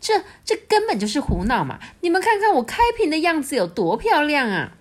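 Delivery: mild angry yell at the crowd; angry shout. A narrator's reading. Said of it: "气得大叫说". (孔雀气得大叫)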